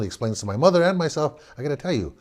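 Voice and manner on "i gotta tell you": softer, lower, settling everyone down; head of house calming wife and son; father explaining calmly to wife and son; reassuring father. Retold or imitated. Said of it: "head of the household".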